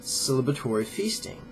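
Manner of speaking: measured, emphatic reading from a book; formal read-aloud with deliberate pauses; book excerpt read-aloud. Acted. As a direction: read it out deliberately, stressing key words.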